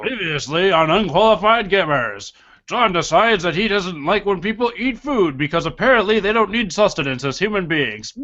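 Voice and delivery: put-on old-time noir narrator. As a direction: narrate like a thirties film noir. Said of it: "You really nailed that impersonation".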